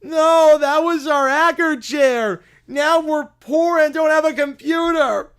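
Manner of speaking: loud, high hammed-up shout of betrayal; furious betrayal. Villain screaming at the chair that betrayed him, furious. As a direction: rage at the traitor chair.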